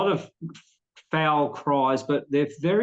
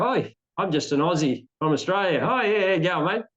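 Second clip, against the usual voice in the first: lightly acted casual, curious Aussie tourist; retold act of innocent, chatty curiosity; playing ignorant; 3 semitones higher than usual. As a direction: play a touch clueless and matey. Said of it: "I'd play ignorant".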